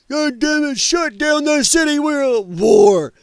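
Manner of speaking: high, mock rallying yell. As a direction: yell it like a rally speaker in jest. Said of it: "come out and go".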